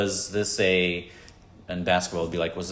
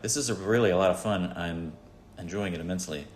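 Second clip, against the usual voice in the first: sarcastic. Retold or imitated. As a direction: fake interest while bored. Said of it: "I thought you were being sarcastic".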